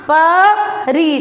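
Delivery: परी stretched out as प...री; syllable by syllable. Shown as a demonstration. Teacher reading the new word to pupils, syllable by syllable. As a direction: sound out परी very slowly. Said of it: "शब्द क्या बना अपना?".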